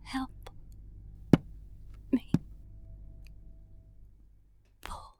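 faint muffled call. Acted. Trapped voice in the wall.

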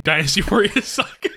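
slow, chopped-up word by word; mock spliced edit. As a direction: imitate words cut together from clips. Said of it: "chop it enough to where".

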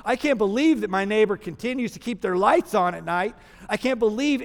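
a smug man griping about his neighbors; self-righteous complaining. Pretend. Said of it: "in his self-righteousness".

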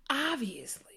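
whispered through a laugh, slow; whispered obviously with a laugh. Retold or imitated. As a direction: breathe it out amused. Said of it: "And I'm like".

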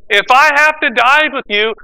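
defiant vow, leaning in close to Jesus' face; vehement. Retold or imitated. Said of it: "he spoke more vehemently".

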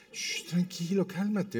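soft, placating shush; gentle hushed reassurance; retold hushing. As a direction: imitate a wife quietly settling her husband. Wife hushing husband, retold.

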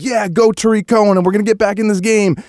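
high-pitched retold cheer; excited fan. Fan cheering on Tariq Cohen's comeback, excited.

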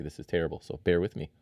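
talking between sips of coffee; words around a sip of coffee; while sipping a drink. Real, not acted. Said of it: "Sorry, I'm gonna sip some coffee here".

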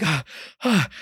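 two breathy, acted gasps of shock. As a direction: gasp twice as if stunned. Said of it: "I was in shock".

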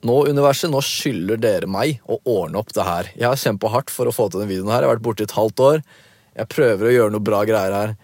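retold fed-up appeal to the universe; mock exasperation. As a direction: act out mildly pissed-off demands, pushing the openings. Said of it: "jeg bare blir så pissed off".

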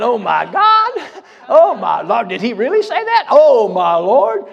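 slow, drawn-out mock horror, laughing through it; shocked gasp. Reader of old sermons hiding under the table, in mock horror. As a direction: act out a scandalized reader gasping.

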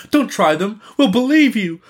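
high, alarmed cry from a crowd; urgent high-pitched protest; fearful cry. A narrator's reading. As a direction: cry out high to stop them. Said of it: "as if fearful of losing them".

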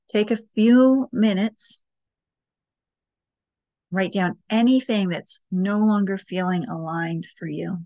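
unhurried guiding voice with long pauses; guided meditation. Acted. Host guiding listeners through breathing and writing prompts, guided meditation. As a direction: lead them gently through each step, leaving space.

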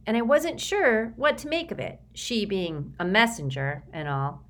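put-on a frightened boy pleading; nervous Sticky. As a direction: recite a memorized apology, eager to please. Sticky resumes his speech.

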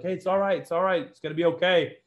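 calm your crying friends; comforting. Retold or imitated. Wounded man comforting crying buddies.

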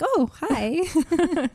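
high, delighted little hello; pleasantly startled, greeting a tiny snake; surprised greeting. Retold or imitated.

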